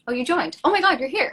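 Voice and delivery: delighted squeal of surprise; light up as the guest arrives; excited greeting. Real, not acted. Guest finally joins the live.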